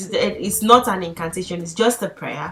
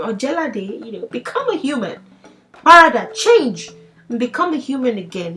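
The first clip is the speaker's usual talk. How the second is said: commanding father god; 4 semitones higher than usual. Retold or imitated. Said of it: "using his ashe to speak to his son".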